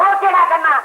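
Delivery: very high-pitched, delighted okay; high gleeful call. Acted. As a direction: sing out agreement up high. Gleeful agreement called across.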